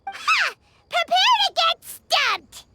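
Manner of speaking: slow, gloating challenge; cocky mock threat; playful taunt. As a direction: throw down the gauntlet.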